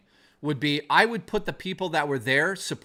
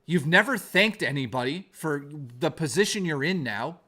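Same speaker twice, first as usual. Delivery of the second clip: scolding a former friend; real anger. Real, not acted. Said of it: "I need to vent because I'm so angry about this".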